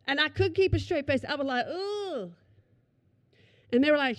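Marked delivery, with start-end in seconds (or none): 1.7-2.3 high, hushed squeamish ooh; disgusted "ooh". Retold or imitated. Undercover officer failing to keep a straight face, squeamish ooh. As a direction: let out a small, high "ooh" of distaste.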